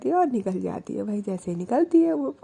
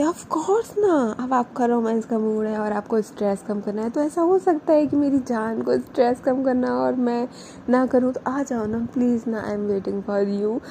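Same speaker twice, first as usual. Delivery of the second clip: romantic voice. Retold or imitated. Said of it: "उसकी voice उस time पे काफ़ी रोमांटिक हो रही होती है".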